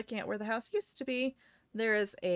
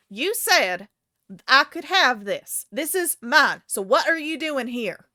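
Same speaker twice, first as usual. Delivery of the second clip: raised, louder accusing voice; indignant woman; 5 semitones higher, 9 dB louder than usual. Acted. Woman in pink claims her territory, indignant. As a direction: accuse them, voice pitched up.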